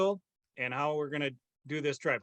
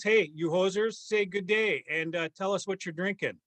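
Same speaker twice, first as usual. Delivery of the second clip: playful Canadian hoser host; rally your co-hosts in put-on Canadian; lightly hammed-up Canadian accent; mock Canadian accent. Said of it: "keep up this accent. I'm glad that you can".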